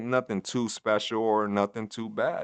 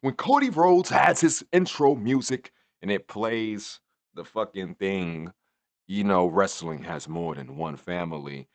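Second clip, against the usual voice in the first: angry Randy quote; 3 semitones higher, 5 dB louder than usual. Retold or imitated. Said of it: "Randy Orton is like".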